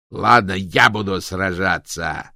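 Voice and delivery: loud, slow gruff bark. A narrator's reading. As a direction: snap back at the challenge. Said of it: "рявкнул Кокс".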